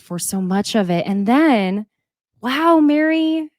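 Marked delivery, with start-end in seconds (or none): 2.4-3.5 stunned wow. Real, not acted. Shocked by Mary's story.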